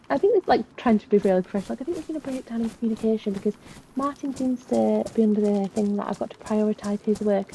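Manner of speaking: lightly put-on naive questioning; playing innocent. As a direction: feign polite cluelessness while retelling it. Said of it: "Just playing stupid".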